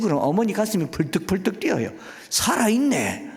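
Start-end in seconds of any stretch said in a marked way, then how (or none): 2.3-3.3 thrilled mother. Retold or imitated.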